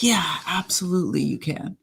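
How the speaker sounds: whispered, soft retold answer; hushed reply. Retelling a sad stranger's answer in a whisper. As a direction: breathe it out like a stunned stranger.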